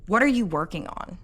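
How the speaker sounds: "What are you working on?" as a pointed accusation; accusing question. Shown as a demonstration. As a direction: ask it like you suspect them of slacking. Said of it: "the second one sounds like an accusation".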